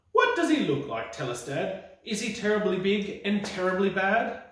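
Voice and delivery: put-on high, eager little Gruffalo child; a small monster child pestering Dad, voice high. Child asking Dad about the mouse, high and eager.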